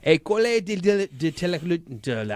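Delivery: stumbling over "École de" in a French accent; tongue-tied French. Real, not acted. Co-host reading a Montreal school's name, tongue-tied. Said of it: "I cannot speak".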